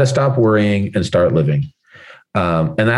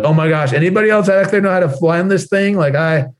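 higher, alarmed plea for help; frantic pilot begging passengers over the loudspeaker; a hammed-up pilot in a panic; panicking pilot yelling; 7 semitones higher than usual. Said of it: "like, yelling at people".

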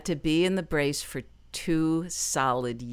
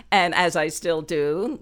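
laughing through the words, louder; bubbling over with a laugh as she talks; real laughter spilling into the line; 4 semitones higher, 7 dB louder than usual. Real, not acted. Laughing while recalling.

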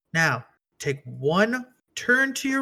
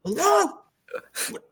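tiny squeaky critter voice; chipmunk voice; 9 semitones higher than usual. Pretend. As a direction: speak like a startled little chipmunk. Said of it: "This sounds like a little chipmunk".

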